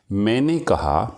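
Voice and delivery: slow, measured verse recital; poem recitation. Acted. Teacher recites a couplet to students, slow and measured. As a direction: recite the couplet slowly, savouring each word.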